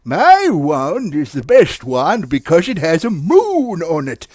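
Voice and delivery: lightly voiced, slow boasting wizard; a hint of a storybook wizard. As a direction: draw it out like a proud wizard. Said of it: "And the wizard said".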